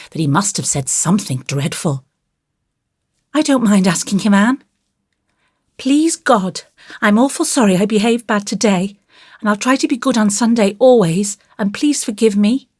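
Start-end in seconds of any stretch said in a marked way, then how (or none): 3.3-12.7 put-on high, quick child's voice; earnest child's apology, pitched up; contrite little boy. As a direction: pray earnestly like a sorry small boy. Voices Davy praying.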